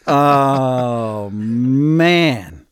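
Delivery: laughing through yeah, that trip; real amused laughter. Real, not acted. Laughing at the Ottawa story.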